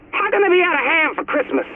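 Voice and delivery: high-pitched, incredulous complaint; dismayed disbelief. Acted. Dismayed at store having no ham.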